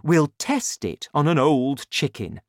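too excited to listen. A narrator's reading. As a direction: lay out the plan with mounting relish. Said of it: "Mister Cranky was too excited".

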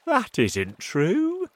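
high, slow, uneasy denial; sounding afraid. A narrator's reading. Centipede contradicting the earthworm, sounding afraid. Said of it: "but he sounded afraid".

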